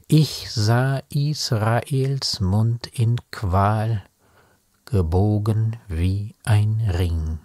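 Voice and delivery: measured, solemn poetry reading with long pauses; grave, unhurried verse delivery; poem recitation. Acted. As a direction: recite the poem slowly, line by line, letting each image stand.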